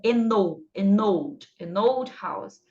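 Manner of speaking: put-on "an old" said over and over, n glued to "old", then slowly "an old house"; linked an old, repeated. Shown as a demonstration. Teacher drilling the class on the link, slow repetition. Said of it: "eu também já colo".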